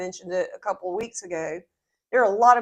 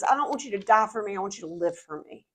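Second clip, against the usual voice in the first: Jesus; faster than usual. Retold or imitated. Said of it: "what Jesus is really scoffing at".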